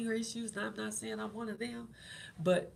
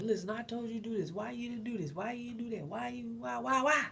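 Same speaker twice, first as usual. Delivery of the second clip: nagging husband; 3 semitones higher than usual. Retold or imitated. Wife scolding husband on the phone, rapid building nag. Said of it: "would call this man, be like".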